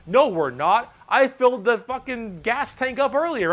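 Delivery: loud, indignant boss orc. Pretend. Boss orc scolding the crew about the gas tank. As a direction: bark it at the lads like the boss. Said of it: "the big orc is like".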